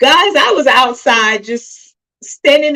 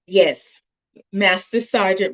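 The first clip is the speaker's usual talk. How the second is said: normal talking voice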